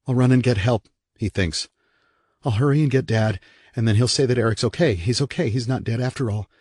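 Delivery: lightly voiced little boy, hopeful and hurried; a child telling himself it will be fine; young boy Evan. Young Evan's thoughts voiced.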